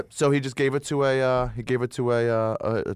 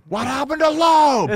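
laughing; 10 semitones higher, 5 dB louder, slower than usual. Real, not acted. Laughing loud bit.

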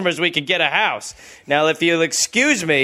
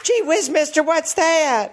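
put-on higher, milder gee-whiz boy; wholesome 1950s kid; 8 semitones higher than usual. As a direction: repeat it as a wide-eyed boy. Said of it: "So he was on a movie lot?".

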